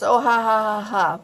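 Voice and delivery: spoken ha-ha imitating someone amused; hammed-up retold laugh; mock laughter. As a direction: mimic his laugh, word by word. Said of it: "he thinks it's hilarious".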